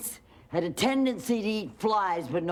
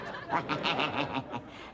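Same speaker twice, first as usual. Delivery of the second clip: witch cackle; 4 semitones lower, 5 dB quieter than usual. A narrator's reading. Witch gloats.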